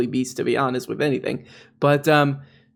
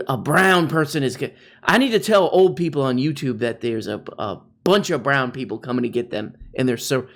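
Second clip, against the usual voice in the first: mock bossy Tim Pool. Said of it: "Imagine Tim Pool being your boss".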